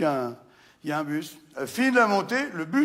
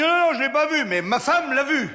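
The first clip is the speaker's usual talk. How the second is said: high timid customer; 8 semitones higher, 4 dB louder than usual. Acted. Customer answers gunman, comic.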